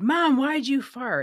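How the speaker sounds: high, drawn-out shouted yell. Retelling a brother yelling to Mom in a supermarket: imitating brother yelling. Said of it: "He would just yell out loud".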